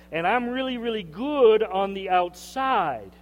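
high, smug bragging to God; boastful Pharisee. Retold or imitated. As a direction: preen like a self-satisfied show-off. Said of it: "All he did was boast".

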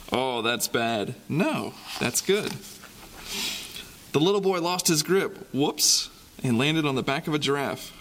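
put-on lively storybook reading for kids; reading to children. A narrator's reading. Reads picture book to kids.

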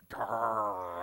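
Gar said as a short "gahr", modelled for the crowd; Greek word gar. Shown as a demonstration. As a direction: lead the room in saying Gar. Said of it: "Say gar".

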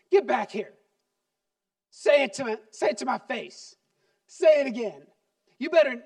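put-on loud, high furious parent ordering the child back; angry parent yelling. Parent yelling after a storming child, loud furious demand. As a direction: bellow at the child to come face you. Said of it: "I've done this a few times".

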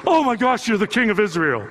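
gushing with a laugh, pitch jumping up; a convert blurting out awe; oh my gosh, swept off his feet; starstruck gasp. Retold or imitated. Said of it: "And Nathaniel goes".

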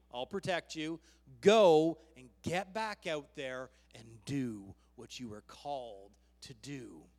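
preacher voicing a no-nonsense command; stern God. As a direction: order him back to work, easing off at the end. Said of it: "What he said to him was".

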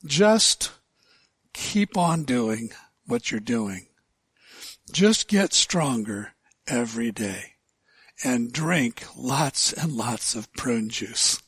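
a hint of a creaky old man giving advice. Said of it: "in his best old man voice".

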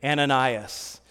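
low, soft, slow call of a name; lightly voiced divine summons, quiet and unhurried; the Lord's call. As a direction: call gently as God in a vision. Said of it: "the Lord said in a vision".

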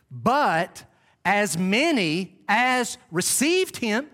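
slow, deliberate Bible reading; scripture recitation. Acted. Preacher quoting God's truth to the congregation, slow scripture recitation. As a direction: recite the verse slowly, phrase by phrase.

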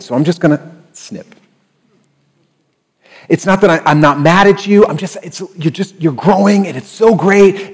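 lightly voiced upbeat God; God voiced gently. God telling a believer he will prune, lightly voiced and cheery. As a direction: sound gently pleased, just correcting. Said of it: "he's like".

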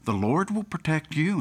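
mildly soothing father's reassurance; calming. Retold or imitated. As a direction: gently reassure a frightened child. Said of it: "tried to calm her".

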